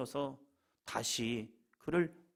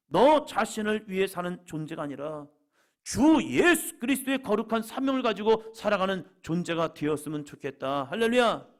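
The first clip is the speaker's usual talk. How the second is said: high, loud, driving sermon delivery; impassioned preaching; 6 semitones higher, 9 dB louder than usual. Real, not acted. Pastor proclaiming Peter's calling to the church, impassioned preaching. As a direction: preach it out with full force.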